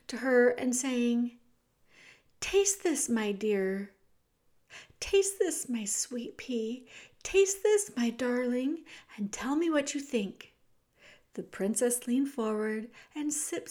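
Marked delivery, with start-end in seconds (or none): 2.4-10.5 queen's voice. Acted.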